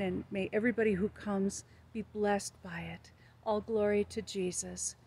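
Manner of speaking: hushed opening prayer before a video. Real, not acted. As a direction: pray it gently and sincerely.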